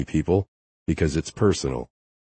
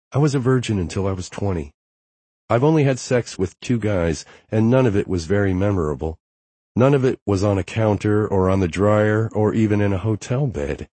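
quick, higher woman's voice; rushed nervous confession, pitched up; Harper; 4 semitones higher than usual. Acted.

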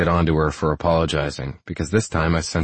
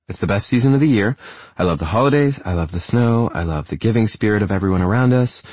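put-on higher, delighted young woman; happy young woman; 4 semitones higher than usual. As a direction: gush happily about winter. Female character, happy about winter.

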